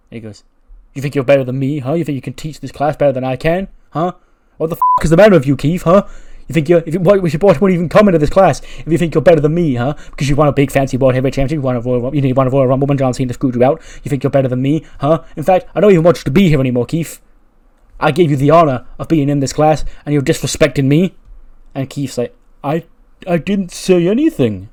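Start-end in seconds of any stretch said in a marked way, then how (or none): 0.9-21.1 loud, escalating mock teacher's rant; angry tirade. Teacher accusing Keith of disrespect in class, angry and loud. Acted teacher berates his guest student. 22.6-24.7 higher, louder hammed-up protest; baffled protest. Keith defending himself after the teacher's tirade, high-pitched protest.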